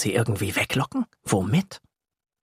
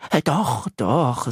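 quick reassurance; slower than usual. Acted. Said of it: "sagt Yassin schnell".

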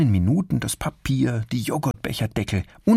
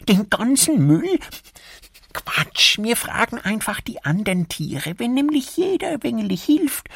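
high squirrel voice, building to eager; a determined little squirrel girl; squirrel Erika; 3 dB louder than usual. Acted. Erika tells her brother they will tidy up. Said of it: "sagt dann".

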